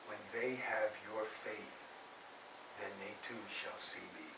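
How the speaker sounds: soft, low, hushed voice; imitated whisper. Krishna answers the boy in his ear, hushed whisper. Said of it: "whispers in his ear".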